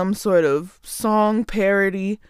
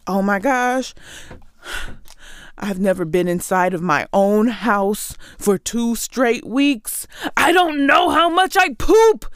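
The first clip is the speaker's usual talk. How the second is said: mock panicking world. Imitating the world stuck at home, mock panic. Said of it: "the world was like".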